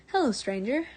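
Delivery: loud friendly guard greeting; calling out. Acted. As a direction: hail a stranger cheerfully at the gate. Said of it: "one of the guards at the gate called out".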